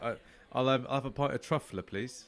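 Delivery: put-on Cockney, easing off at the end; Cockney pub customer; Cockney accent. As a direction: order a pint as a Cockney. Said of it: "is a Cockney one".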